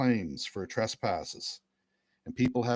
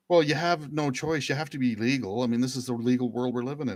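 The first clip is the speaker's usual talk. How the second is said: mock heckling lawyer; 3 semitones higher, 4 dB louder than usual. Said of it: "And they're like".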